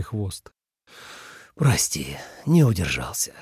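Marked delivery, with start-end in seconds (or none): 1.6-3.3 lower, sighing sorry; sighing apology. A narrator's reading. Dragon apologising to the fox for grabbing her tail, sighing. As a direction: apologise on a guilty sigh. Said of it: "вздохнул Лао Лун".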